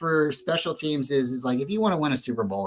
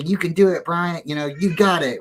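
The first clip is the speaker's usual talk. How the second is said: higher, louder encouraging cheer; pump-up cheer; 4 semitones higher, 3 dB louder than usual. Retold or imitated. Someone encouraging the kicker, upbeat cheer. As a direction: cheer him on before the kick. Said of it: "like, say".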